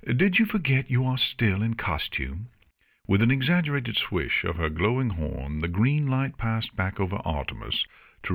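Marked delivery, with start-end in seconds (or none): 0.0-2.5 incredulous. Acted. Character questions the costumed paladin.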